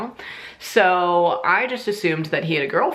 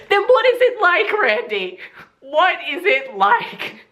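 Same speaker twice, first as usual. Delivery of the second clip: much higher, louder, disbelieving; outraged demand; 4 dB louder than usual. Retold or imitated. Confronting Randy about hooking up with her sister, outraged. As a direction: throw the question back at him, incredulous.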